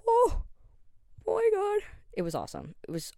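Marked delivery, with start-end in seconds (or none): 0.1-1.8 very high, loud squeal of delight, geeking out over the trailer; excited squeal. Retold or imitated. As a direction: shriek it like a thrilled fan. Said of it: "I was like".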